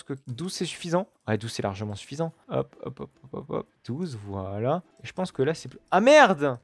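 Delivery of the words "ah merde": surprised curse. Real, not acted. Sees the spots show through.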